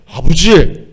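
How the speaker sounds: a distant, formal father call; stiff formal call. Shown as a demonstration. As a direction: say it stiffly, without warmth. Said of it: "다정하게 못 부르는".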